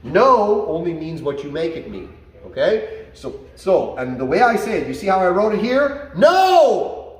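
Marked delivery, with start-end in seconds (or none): 6.1-7.2 loud, much higher "No!" with a punchy fall; emphatic no. Shown as a demonstration. Trainer showing exactly how he says no, loud and sharp. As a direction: snap the no out with real force. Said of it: "That's how I say it".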